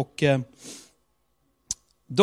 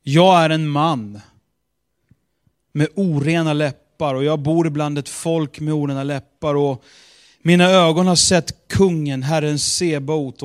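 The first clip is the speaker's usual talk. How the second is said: solemn scripture reading; 7 dB louder than usual. Shown as a demonstration. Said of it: "Kapitel sex".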